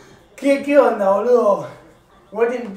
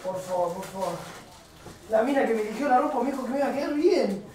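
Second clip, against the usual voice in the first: quiet grumbling; 9 dB quieter than usual. Real, not acted. Grumbles off-mic about the purchase.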